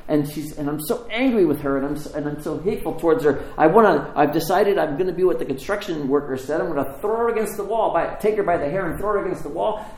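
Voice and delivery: worked-up, mock-anguished venting; animated rant. Greek taxi driver venting about the woman upstairs, animated. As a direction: pour out the grievance, rising in pitch. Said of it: "he's Greek. Remember, I told you that".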